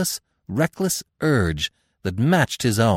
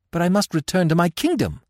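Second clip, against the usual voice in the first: high, loud, helpless insistence; helpless royal protest, pitched high; 12 semitones higher, 6 dB louder than usual. A narrator's reading. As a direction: plead helplessly to go home. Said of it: "she repeated helplessly".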